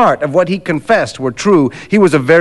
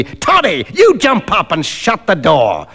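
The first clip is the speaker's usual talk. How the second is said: imperious rogue's command; a touch of rude authority; bossy order. Acted. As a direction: boss him about by nickname. Stranger issuing orders to Macfarlane.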